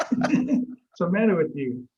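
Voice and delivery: high, slow mock yell with laughter; retold yelling. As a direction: laugh through an imitated shouting match. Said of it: "we're yelling, screaming".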